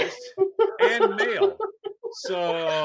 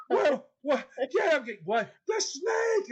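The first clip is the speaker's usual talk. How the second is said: groggy wife; 8 semitones higher than usual. Retold or imitated. Wife half-asleep, voiced in story.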